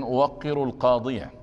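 final fatha voiced in القاضية; teaching pronunciation. Shown as a demonstration. Teacher showing students the case ending, teaching pronunciation. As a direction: pronounce القاضية with its last "-ya" sounded, not paused on. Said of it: "وهذا النطق تعليمي".

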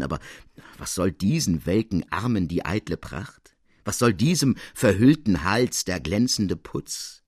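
put-on old lady laughing off a lavish present; graceful teasing. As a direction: fend off the gift with a smile in the voice. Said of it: "erwiderte die Scuderie anmutig scherzend".

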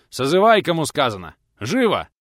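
sharp shouted command; barking order. A narrator's reading. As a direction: snap the order at a hesitant friend. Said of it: "прикрикнул мужчина".

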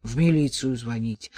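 a hint of a gruff grumble; grumbling. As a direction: grunt it out curtly. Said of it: "буркнул Чернов".

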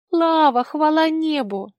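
high, loud plaintive cry, slowing; plaintive sob. A narrator's reading. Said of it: "жалобно всхлипнула она". (жалобно, со всхлипом)

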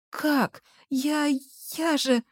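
high, soft, broken plea; tearful. A narrator's reading. Girl stammering through tears at her boyfriend. Gulya crying at breakup.

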